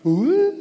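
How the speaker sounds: high, long drawn-out wail; imitated messy wail. Husband as his wife slams into him, imitated high wail. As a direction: let out a long high mock sob. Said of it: "She was crying out of control".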